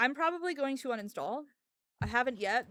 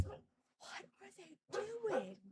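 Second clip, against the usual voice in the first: much higher, very soft and slow; puzzled coo at the dogs; slow hushed baffled question; soft incredulous; 8 semitones higher, 12 dB quieter, much slower than usual. Real, not acted. Watching dogs bark.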